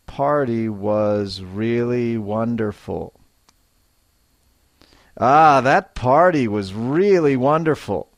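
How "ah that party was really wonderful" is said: delighted. Shown as a demonstration. Teacher showing learners, delighted. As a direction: gush about the party. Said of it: "a little more feeling and life".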